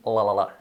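"la, la, la" dwelling on the L; demonstrated L sound. Shown as a demonstration. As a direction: sound out the L in each "la". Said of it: "y luego la L".

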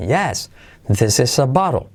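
slow YES as high mark, BOTTLE echoes it; high-yes intonation. Shown as a demonstration. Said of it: "yes como punto de referencia alto". ("yes" como punto alto para entonar "bottle")

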